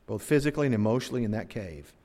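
ordinary talk, nothing marked

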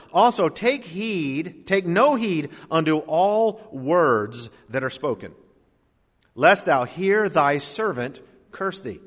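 slow, weighty reading of the verse; solemn slow scripture read. Acted. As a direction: read it slowly, leaning on each word. Reads scripture slowly.

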